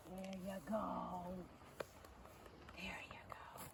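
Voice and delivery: low, slow, hushed encouragement; sinking to a near whisper; soft praise. Real, not acted. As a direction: murmur it gently to the horse. Soothing the horse during training.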